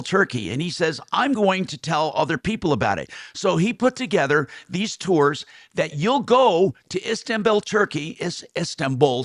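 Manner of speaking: upbeat radio ad read; live ad read. Acted. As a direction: sell it like a host endorsement. Host reads live hair transplant ad.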